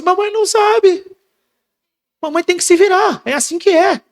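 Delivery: high, plaintive mother voice; mock weary mother. Preacher mimics a helpless mother, high and plaintive. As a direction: play the helpless mother consoling her child.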